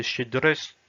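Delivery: chier drust said slowly, the o like a; model word. Shown as a demonstration. Teacher assembles the word for learners. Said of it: "se prononce comme un A".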